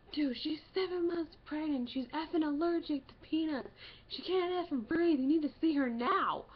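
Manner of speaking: shouting, high and loud; loud and angry. Retold or imitated. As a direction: yell at the triage nurse. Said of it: "had to get loud with the guy".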